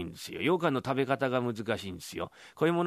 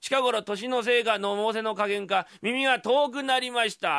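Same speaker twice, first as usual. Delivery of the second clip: put-on higher, slower genteel old lady's voice; a hard-of-hearing grandmother talking loudly; old lady speaking up; 10 semitones higher, 3 dB louder than usual. Deaf old mother explains her hearing loss, in a high genteel voice.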